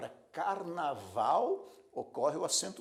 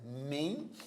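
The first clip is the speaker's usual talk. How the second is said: "men" drawn out slowly; stressed syllable MEN. Shown as a demonstration. Teacher naming the tonic syllable, "men" held long. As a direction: isolate "men" and hold it. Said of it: "a sílaba forte é men".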